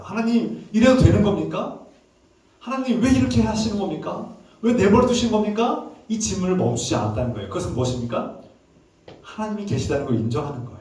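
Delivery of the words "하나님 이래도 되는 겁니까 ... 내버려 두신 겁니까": acted protest to God, pitched high; angry questioning. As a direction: demand answers from God, voice raised in pitch. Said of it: "화가 날 때 하나님께 질문해야 됩니다". (화가 나서 하나님께 따져 묻듯)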